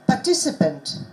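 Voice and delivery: "participant" with weight on TI; stressed syllable demo. Shown as a demonstration. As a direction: lean on the second syllable of "participant". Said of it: "Which syllable is stressed?".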